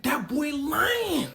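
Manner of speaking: high, loud, stretched-out protest; indignant denial. Retold or imitated. Super Cop denying the snitch's story, loud and indignant. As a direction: drag it out in mock outrage.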